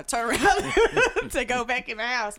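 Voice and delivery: words broken up by real laughs; laughing while talking. Real, not acted. Woman recalling being locked out, laughing through it. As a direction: tell it slowly through laughter. Laughing at her own story.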